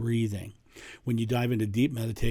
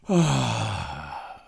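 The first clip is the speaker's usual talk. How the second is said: relief exhale. Shown as a demonstration. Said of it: "They allow themselves to exhale".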